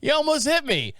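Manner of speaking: high, laughing mock driver; laughing mimicry. Vlogger mocking the driver's complaint while laughing. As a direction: laugh through the parroted lines.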